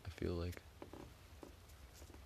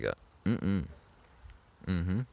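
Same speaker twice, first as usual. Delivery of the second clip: mm-hmm sound; 2 semitones higher, slower than usual. Shown as a demonstration. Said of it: "You've got, like".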